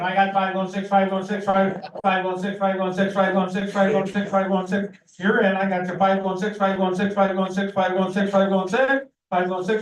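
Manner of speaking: rapid rhythmic auction chant; auctioneer. Real, not acted. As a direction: rattle off bids like an auctioneer. Auctioneer calling bids.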